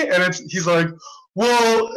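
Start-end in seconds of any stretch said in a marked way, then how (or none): 1.3-1.9 grudging justification. Retold or imitated. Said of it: "he tried to justify it".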